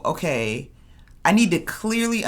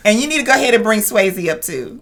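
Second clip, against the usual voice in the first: high, loud, rushed demand for the floor; acted urgency; 6 semitones higher, 6 dB louder, faster than usual. Katie demanding to speak to everyone, comically urgent. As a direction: blurt it fast and insistently, hamming it up.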